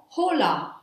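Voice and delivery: slow, stretched Spanish greeting; energetic greeting. Shown as a demonstration. Teacher modelling a Spanish hello, slow and deliberate. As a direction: draw out both syllables. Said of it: "let's project some energy".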